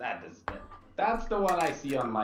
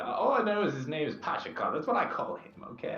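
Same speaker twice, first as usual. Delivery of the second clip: raised, flustered protest; flustered insistence; 9 semitones higher, 5 dB louder than usual. Acted. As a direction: insist a little too loudly. Character insists loudly, flustered.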